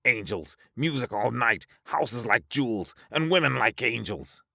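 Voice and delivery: high, lightly spoken list; dreamy character voice. Acted. Recalling the old man's paradise, high character voice.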